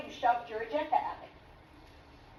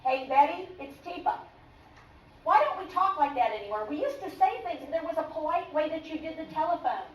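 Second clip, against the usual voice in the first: put-on a touch of old-fashioned phone politeness; polite greeting; 2 semitones higher than usual. Shown as a demonstration. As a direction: friendly, clear phone greeting. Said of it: "Here's what you wanna learn how to do".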